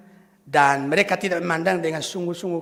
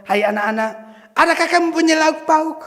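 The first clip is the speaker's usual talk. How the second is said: friendly greeting; 9 semitones higher, 6 dB louder than usual. Shown as a demonstration. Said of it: "ini dengan sapaan akrab".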